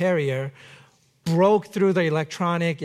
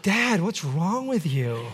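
mock horrified. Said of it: "Maddie looks at me horrified".

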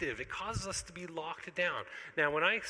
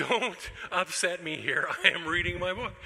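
louder, mock-irritated dad; mock cranky; 3 semitones higher, 7 dB louder than usual. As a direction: huff it like a grumpy father guarding his book. Cranky dad defends his reading.

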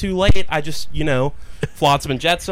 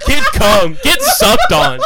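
mocking high taunt; 7 dB louder, much slower than usual. Real, not acted. Taunting chant back and forth.

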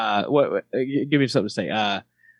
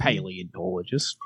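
low, softer Australian accent; 4 semitones lower, 5 dB quieter than usual. Shown as a demonstration. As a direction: savour the word in Australian. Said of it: "That's a fun word to say in Australia".

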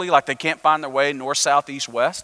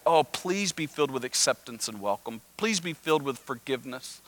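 softly hoping; 8 dB quieter than usual. Retold or imitated. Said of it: "what they're hoping".

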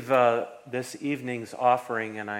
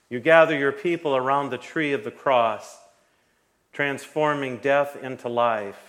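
liturgical prayer; 4 dB louder than usual. Acted. Pastor chants eucharistic prayer.

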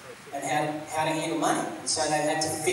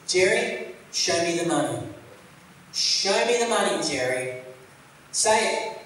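Cuba egging Jerry on; 3 semitones higher than usual. Retold or imitated. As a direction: rev him up like the player on the phone. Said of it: "and Cuba says".

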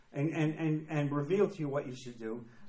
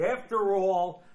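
mock smugness; 3 semitones lower, slower than usual. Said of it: "There's the key word".

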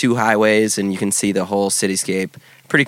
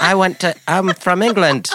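put-on overdone British accent, pitched up; fake British accent; 9 semitones higher than usual. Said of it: "so she had this British accent".

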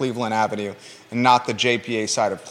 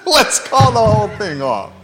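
laughing quote; 8 semitones higher, 4 dB louder than usual. Real, not acted. Song quote echoed laughing.

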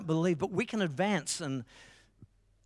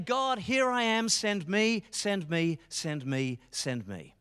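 passionate plea; 3 semitones higher, slower than usual. Acted. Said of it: "incredibly passionate".

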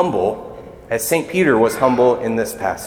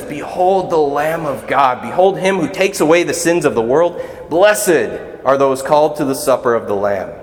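priest's proclamation. Retold or imitated. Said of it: "and he says".

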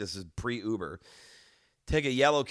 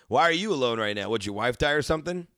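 callous; 4 semitones higher, 4 dB louder than usual. Retold or imitated. Drunk heckle of old man.

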